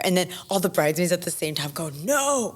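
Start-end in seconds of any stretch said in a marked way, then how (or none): 1.9-2.5 high-pitched drawn-out protest; mock alarmed cry. Bridesmaids stopping stepdad at once, imitated high alarmed cry.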